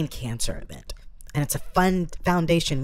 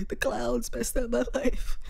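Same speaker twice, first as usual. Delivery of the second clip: higher, softer mock whine; sad clown quote; 8 semitones higher, 3 dB quieter than usual. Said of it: "He was like".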